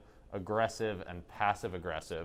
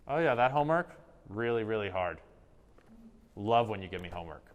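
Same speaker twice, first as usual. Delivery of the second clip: sarcastic passive aggressive; 5 dB louder, faster than usual. Shown as a demonstration. Student jabbing at teacher about homework, sarcastic and passive-aggressive. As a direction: deliver little sarcastic jabs. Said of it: "that little sarcastic, passive-aggressive tone".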